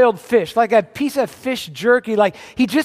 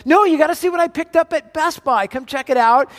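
calling out excitedly; 5 semitones higher than usual. Retold or imitated. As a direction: call her over, bursting with the secret. Calling wife to see surprise.

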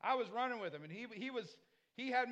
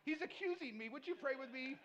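mock pleading; 5 semitones higher than usual. Pastor begging for prayer.

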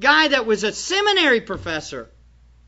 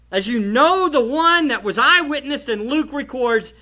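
emphatic challenge to the congregation; forceful preaching; 4 dB louder than usual. Real, not acted. Preacher challenges church to live the Word, forceful preaching. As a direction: press each question home with force.

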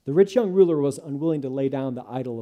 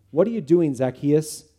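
cynical; 6 dB louder than usual. Acted. Judah suspecting a setup from Zacchaeus, cynically. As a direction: sneer it with distrust. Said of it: "cynicism hissed through Judah's teeth".

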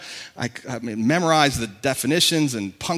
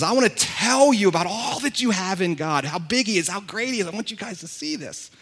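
excited Paul; 2 semitones higher than usual. Retold or imitated. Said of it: "just got so excited and says".

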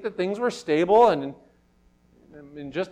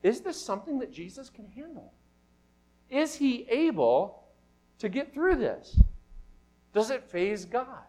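contemplating; 5 semitones higher, 3 dB quieter than usual. Acted. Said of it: "we ask ourselves, or begin to contemplate".

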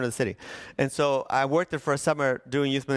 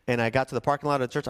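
rushed storytelling, words running together; talking fast; much faster than usual. Real, not acted. Hurrying through the story of reaching the church, talking fast. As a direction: race through the detail. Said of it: "I'm talking fast".

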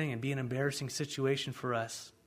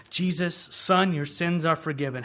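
voicing Jesus; 3 semitones higher, 6 dB louder than usual.

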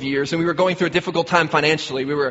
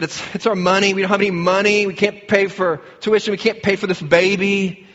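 higher, mildly pleading imitation of distress; retold distressed outburst; 4 semitones higher than usual. Wife tells stranger about the money worries, retold mild distress. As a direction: act out a worried wife pouring out troubles.

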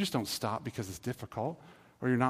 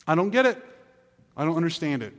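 high, loud exasperated "I don't get it"; frustrated confusion; 3 semitones higher, 6 dB louder, faster than usual. Retold or imitated. A confused believer complaining, high and loud exasperation. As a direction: whine it like you're stuck. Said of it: "the last few is just one".

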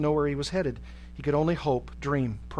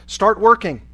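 loud, raised-pitch order; demanding; 6 semitones higher, 11 dB louder than usual. A narrator's reading. Guard ordering a prisoner to work, loud and demanding. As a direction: issue a sharp, loud command. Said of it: "and demanded".

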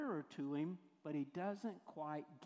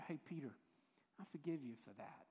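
softer, lower, tender voice; gentle reassurance; 4 semitones lower, 6 dB quieter, faster than usual. Retold or imitated. Jesus forgiving Peter, gently reassuring. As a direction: drop down and reassure kindly.

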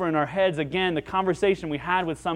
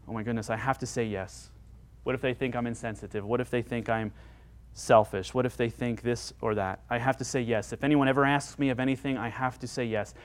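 soft, low worrying to oneself; hushed, lightly acted people-pleaser's fretting; fretful inner voice; 4 semitones lower, 5 dB quieter than usual. People-pleaser worrying what others think, fretful undertone.

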